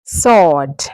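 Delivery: "Sword" as sord, no w sound; silent W. Shown as a demonstration. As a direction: say "Sword" to rhyme with board, starting so-. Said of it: "is silent".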